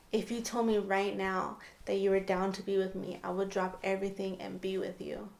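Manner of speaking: understated, earnest retold declaration; dead serious. Man confessing to her in the car, mildly dead serious. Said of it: "he was dead serious".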